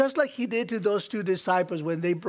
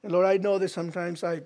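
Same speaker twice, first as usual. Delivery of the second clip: heartfelt prayer; 3 semitones lower than usual. Acted. Leads communion prayer.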